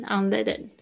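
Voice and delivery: unleaded with the stress on le. Shown as a demonstration. Teacher models unleaded for the student, stress on le. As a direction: lean on the le in unleaded. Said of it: "重音在le上面".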